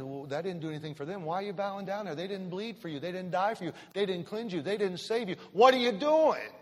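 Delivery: rising, pleading rebuke building to a shout; imagined Jesus. Acted. Preacher voicing Jesus, pleading then shouting at idolaters.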